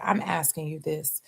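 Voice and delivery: hushed aside; whisper. Retold or imitated. Driver leaning in to the rider, hushed whisper. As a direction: drop it to a whisper.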